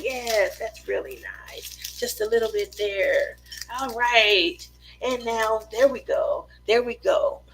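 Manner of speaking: soft soothing painter voice; lightly voiced gentle TV painter; Bob Ross impression. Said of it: "Why does he sound like a masseuse?".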